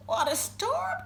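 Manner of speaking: high-pitched little bird voice; twittering wren. A narrator's reading. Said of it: "twitters wren".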